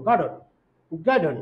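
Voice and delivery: গার্ডেন with no vowel before N; গার্ডেন as gard-n; syllabic N. Shown as a demonstration. Teacher showing the silent vowel in গার্ডেন. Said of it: "ইউ উচ্চারণ হবে না".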